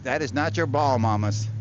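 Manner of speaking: dog owner telling her dog off, loud; loud scold. Real, not acted. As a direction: scold the dog loudly, pitch up. Scolding dog over a ball.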